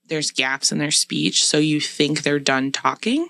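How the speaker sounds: slow, measured monotone; drawn-out, deliberate authority-figure pacing; slow, gapped speech. Shown as a demonstration. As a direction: leave gaps as if finished, then carry on. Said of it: "the way they're talking like that".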